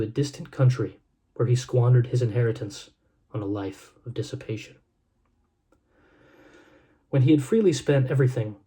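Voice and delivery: measured, reverent reading of a Bible passage; gentle storyteller's scripture read. Acted. Reads Luke chapter fifteen aloud.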